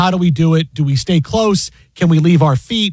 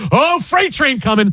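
higher and slower, a mock warning; imitating a player seeing a freight train coming, higher and slow; higher, slow mock alarm; 8 semitones higher than usual. Host imitating a player bracing for a hit, higher and slow. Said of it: "This is S G A going".

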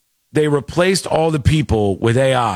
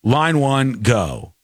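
curt; much slower than usual. Retold or imitated. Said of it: "I would say".

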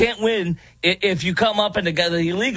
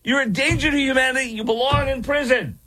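high, laughing mock outrage; laughing mockery; 7 semitones higher than usual. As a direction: laugh through the mock quote. Mocking a clip while laughing.

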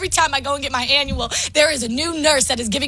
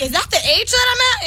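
retold startled question; 8 semitones higher than usual. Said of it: "I was like".

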